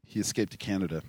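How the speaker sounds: talking through sniffles; sniffly nose while speaking; sniffling. Real, not acted. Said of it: "What are you sniffling for?".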